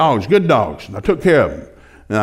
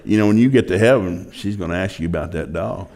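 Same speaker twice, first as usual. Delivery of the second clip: voice of God; 8 semitones lower than usual. Retold or imitated. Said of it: "I heard this voice. It sounded like my wife, but it was God".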